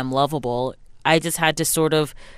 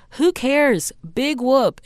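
mock dismissive; 7 semitones higher, slower than usual. Acted dismissal of others' judgement.

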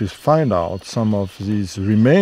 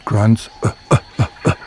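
chimp grunt imitation; 4 dB louder, faster than usual. Shown as a demonstration. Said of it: "what does a chimp sound like".

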